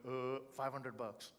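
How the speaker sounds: slow Southern drawl, imitating an old speaker; easygoing imitation of Southern speech; old Southern accent. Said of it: "he had that old Southern accent".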